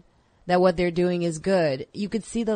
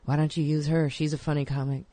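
understated mock comic voice, slightly lowered; a lightly voiced, low-key comedian vouching for someone; Todd Barry; 3 semitones lower than usual. Guest imitates a comic putting in a word, low-key impression. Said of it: "That was a horrible Todd Barry, um, impersonation".

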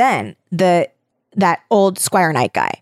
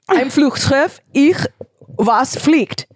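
halting, higher attempt at German; clumsy German pronunciation, with pauses; amateur German; 6 semitones higher, slower than usual. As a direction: stumble through German as a non-speaker. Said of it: "I'm sorry for that pronunciation".

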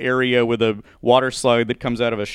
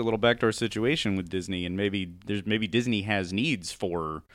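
conspiratorial hush; 4 semitones lower, 8 dB quieter than usual. Acted. Conspiratorial joke about Disney deals.

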